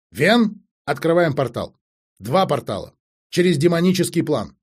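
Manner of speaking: bossy, no-nonsense briefing; brisk commanding. Acted. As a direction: lay out the plan in emphatic bursts. Acted commander giving urgent orders.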